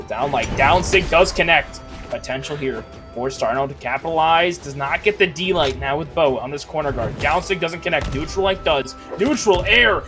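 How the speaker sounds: building excitement on each hit; excited play-by-play. Real, not acted. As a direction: call the hits rising to a peak. Live casting of a game.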